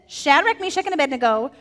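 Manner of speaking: lightly voiced king sounding like a scolding mom; a hint of a mother giving a warning; half-hearted stern parent. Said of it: "Does that sound kinda like a mom".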